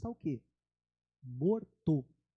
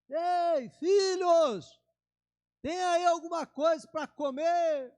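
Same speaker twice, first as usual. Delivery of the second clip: higher and louder, shouting across the water; calling out; 9 semitones higher, 5 dB louder, slower than usual. Retold or imitated. Jesus calling to the disciples from the beach, loud call. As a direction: hail the fishermen from the shore. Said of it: "Jesus grita".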